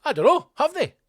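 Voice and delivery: mock shaken self-doubt. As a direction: let the doubt shoot up in pitch. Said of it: "And I thought".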